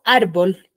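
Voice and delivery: "árbol" with the stress on ár; stress on first syllable. Shown as a demonstration. Teacher asks class for the strong syllable, stressed "árbol". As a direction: say "árbol", weight on ár, bol weaker. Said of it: "qué sílaba tiene mayor fuerza de voz".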